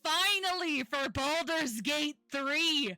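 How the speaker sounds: excited. Real, not acted. GM excited about next stream.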